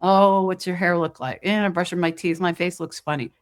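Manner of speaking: disapproving mirror mutter; picking at your own looks; critical self-talk. Retold or imitated. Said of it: "mostly in a critical manner".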